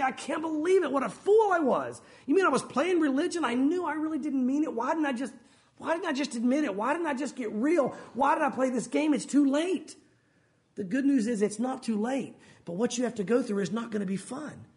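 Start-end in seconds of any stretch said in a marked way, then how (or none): 0.0-10.0 higher-pitched acted regret; mild anguished lament. One left behind bemoans missing the rapture, mildly anguished lament. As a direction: lament your mistake, voice lifted a little. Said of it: "begin to just mourn and moan and groan".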